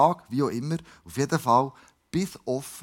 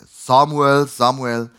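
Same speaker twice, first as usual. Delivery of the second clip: lower, loud call of the name; 3 semitones lower, 8 dB louder, much slower than usual. A narrator's reading. Jahwe steps up and calls as before, calling out. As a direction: call the name, then repeat it falling. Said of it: "rief wie vorher".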